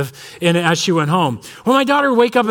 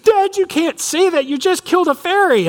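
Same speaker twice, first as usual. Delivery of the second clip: upset little daughter; 10 semitones higher than usual. Retold or imitated. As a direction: scold dad like a shocked kid. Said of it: "She's like".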